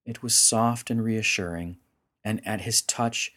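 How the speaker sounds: measured, dramatic storyteller's read; story narration. A narrator's reading. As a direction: narrate a solemn myth with deliberate phrasing. Narrates a story over music.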